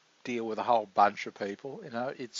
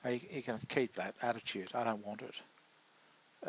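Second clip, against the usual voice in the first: soft slow dismissal; 9 dB quieter, slower than usual. Retold or imitated. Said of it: "I just think".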